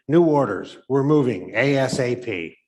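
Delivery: loud announcement. Acted. Sergeant barks new orders at the company, loud. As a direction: push the news out fast and loud.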